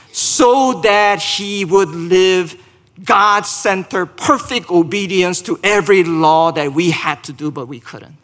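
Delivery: deliberate, driving pulpit delivery; forceful gospel proclamation; emphatic preaching. Real, not acted. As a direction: hammer out the key words as you preach.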